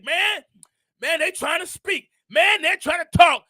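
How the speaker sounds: mildly excited retold announcement; lightly imitated proud excitement; excited parent. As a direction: share baby news on a video call. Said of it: "we get excited".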